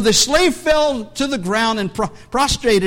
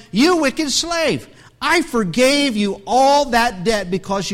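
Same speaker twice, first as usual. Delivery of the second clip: stern rebuke. Acted. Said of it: "read that again".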